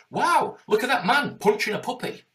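high, loud gasp of disbelief; see the cruelty and recoil out loud; shocked passerby. Retold or imitated. Passerby spotting a man punch a puppy, loud high shock.

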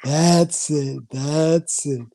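slow, coaxing hypnosis patter; hypnotist voice. Acted. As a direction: lull her in like a stage hypnotist. Hypnotist keeps building the trance.

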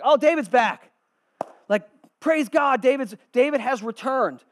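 high, loud cheer of welcome; mock excited crowd. People at the gates greeting David's return, excited cry.

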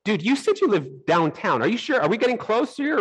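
mock-wary, high-pitched checking; suspicious questioning. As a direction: retell growing suspicion, pitch rising as you press. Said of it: "I'm getting suspicious".

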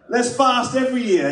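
hammed-up delight at losing weight; mock enthusiasm. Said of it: "And I'm like".

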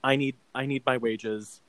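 stark, understated firmness; mildly stern imitation; staunch. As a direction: state the demand plainly and hold firm. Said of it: "staunch, stark, sort of like".

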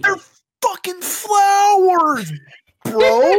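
high, slow, cracking yell of disbelief; loud exasperated wail at a friend; exasperated cry. Real, not acted. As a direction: wail it at him like he's lost his mind. Exasperated outburst over flowers.

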